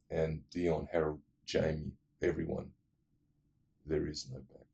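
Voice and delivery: low, soft, ominous aside; hushed and dramatic. Real, not acted. Telling friends the film's turning point, hushed. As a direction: drop the voice to build suspense.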